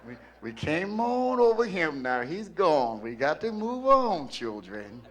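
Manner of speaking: lightly imitated chairman in swooping phrases; a touch of sing-song church oratory. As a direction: lilt it like an elder addressing the flock. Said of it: "You know how he talks".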